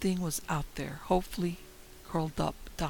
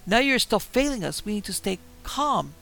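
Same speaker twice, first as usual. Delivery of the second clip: higher, loud, raging shouts; furious yell; 6 semitones higher, 6 dB louder than usual. Acted. Narrator screaming at Alice in the car, furious. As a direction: scream it out at the woods.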